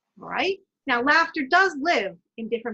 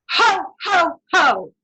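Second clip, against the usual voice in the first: loud, higher Ho, ho from the diaphragm; belly laugh ho ho ho; 6 semitones higher, 9 dB louder, much slower than usual. Shown as a demonstration. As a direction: boom it out from the belly, like Santa. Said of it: "Breathe in".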